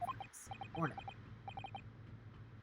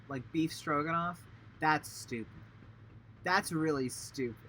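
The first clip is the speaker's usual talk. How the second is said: put-on louder, slow, indignant Russian accent; annoyed Russian sailor; 4 dB louder, slower than usual. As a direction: scoff at the silly name. Sailor angry about his name.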